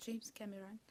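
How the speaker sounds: English name with an American accent. Real, not acted. Co-host naming the film director in French talk, American accent. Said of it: "ça fait accent américain".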